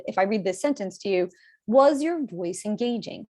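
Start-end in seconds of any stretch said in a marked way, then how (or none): 1.7-3.3 drawn-out "Was your voice engaging" with moving pitch and clear emphasis; vary the pitch, leaning on "Was"; slow, engaging question with emphasized key words; pitch moved around. Shown as a demonstration. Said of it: "I actually move the pitch around".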